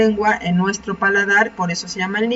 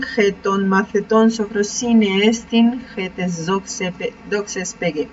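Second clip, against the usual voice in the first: slow reading; slower than usual. Shown as a demonstration. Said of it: "La última oración".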